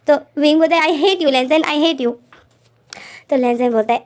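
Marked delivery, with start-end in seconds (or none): 0.9-2.1 louder, higher mock-angry I hate you; lightly acted angry protest; retold angry outburst. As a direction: throw it at him in retold fury.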